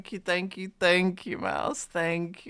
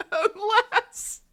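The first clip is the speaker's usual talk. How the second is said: much higher, wailing unless; whiny high plea. Pretend. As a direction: whine it out like begging. Teasing chat about gifts.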